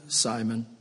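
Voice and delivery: second Simon hushed and tender. Acted. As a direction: call him like his mother would, soft. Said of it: "Moment of tenderness".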